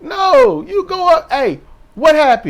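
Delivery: high, loud, hammed-up panic; mock frantic friend. Mocking a wrestler running to her friend, high and frantic.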